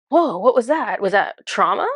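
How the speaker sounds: a touch of alarm, retold; retold freak-out. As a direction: react taken aback, mildly. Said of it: "I kinda freaked out".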